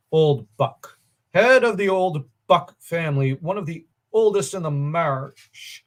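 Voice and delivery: measured storybook reading with a strong opening; deliberate, lifted narrator delivery; story narration. A narrator's reading. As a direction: read it out like an old legend. Reads a paragraph aloud from the book.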